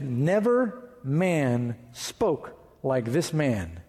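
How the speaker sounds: every word drawn out, very slow; slow solemn quote. Acted. Pastor quoting the awed officers, very slow and solemn. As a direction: let "Never man spoke like this man" land slowly, weight on "Never".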